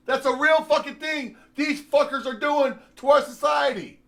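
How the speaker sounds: furious rant at society; outraged shout. Real, not acted. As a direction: yell it in disgust. Outraged about lap dances.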